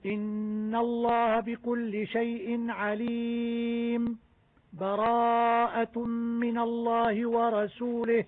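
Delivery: slow recitation with a short breathless pause after عليم; brief silent pause. Shown as a demonstration. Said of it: "السكت". (سكتة لطيفة بعد عليم دون تنفس)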